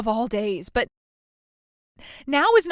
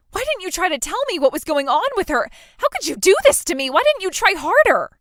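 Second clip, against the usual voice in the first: hurt accusation; 4 semitones higher than usual. Acted. Sister told of mother's death, rising hurt accusations. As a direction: blame her sister in rising distress.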